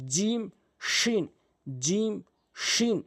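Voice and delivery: জিম, শিন held long and high from the middle of the tongue; slow teacher model of জিম and শিন; Arabic letter demo. Shown as a demonstration. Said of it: "উপরে তালুর সঙ্গে লাগাবেন".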